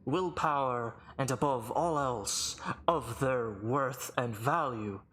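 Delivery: lightly voiced formal herald; measured, portentous proclamation; booming arena announcer. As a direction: pronounce judgment before the crowd. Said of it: "booming voice echo throughout the arena".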